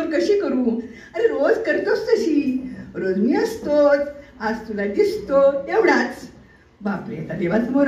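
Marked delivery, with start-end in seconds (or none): 1.1-6.3 a hint of a higher, slow, amused god; god's voice. God speaks to devotee. (देवाचा हलकासा उंच, हळू आवाज)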